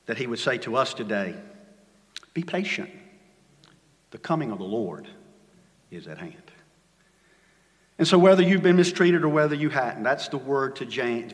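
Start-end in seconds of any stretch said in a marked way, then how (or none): 2.3-6.5 fading to hush. Acted. Quoting scripture, falling to hush.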